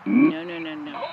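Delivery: high, loud, panicked no's; frightened no. Real, not acted. Alone at night among mirrors, panicked denial. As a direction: recoil from something unseen.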